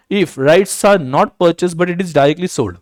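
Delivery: very slow, word by word, as if for notes; slow, measured dictation. Shown as a demonstration. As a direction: read it out slowly for students to copy.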